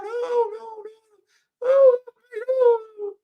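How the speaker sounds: very high, shrill-free falsetto wail of panic; mock panicked scream. Woman panicking as her dog attacks, high mock scream. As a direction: shriek it like a frantic woman. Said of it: "starts screaming".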